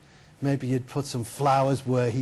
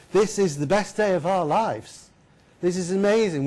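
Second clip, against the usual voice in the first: elated; 4 semitones higher than usual. Acted. Man rejoices at sudden riches.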